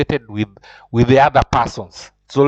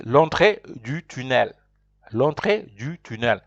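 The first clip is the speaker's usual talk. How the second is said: repeat-after-me model; 4 dB quieter than usual. Shown as a demonstration. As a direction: clear French model phrase, given twice. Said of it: "So repeat after me".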